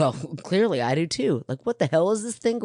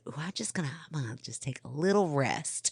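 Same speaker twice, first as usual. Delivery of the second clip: put-on country accent. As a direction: talk it like a country girl. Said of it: "so country when you were doing it".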